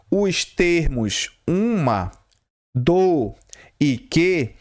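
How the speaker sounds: unvoiced whispered reading. Shown as a demonstration. Teacher reading the exam item to herself in a whisper. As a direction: whisper the test question aloud. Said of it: "reading the test item".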